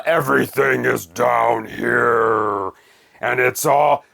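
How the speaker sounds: put-on slow, drawn-out English with a heavy German accent; German accent impression. Reviewer mimics the band's German singer in a slow German accent. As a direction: croon it slowly like a German goth singer. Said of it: "they sing in English with this German accent".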